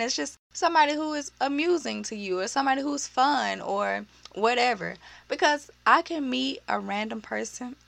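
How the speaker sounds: hoarse, scratchy throat; a worn raspy voice, running dry. Real, not acted. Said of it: "My voice is so raspy right now".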